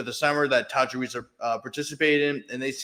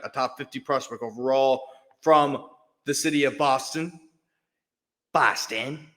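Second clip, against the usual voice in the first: put-on a clumsy, half-hearted Boston accent; mock Boston accent, badly faked. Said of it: "That was a bad Boston accent".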